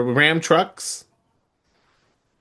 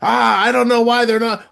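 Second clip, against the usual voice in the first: lightly imitated British accent, pitched higher; Wade Barrett; 7 semitones higher than usual. Host mimicking a puzzled commentator, light British accent. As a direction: put on a slight British commentator's accent, raised. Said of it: "in his, in his accent".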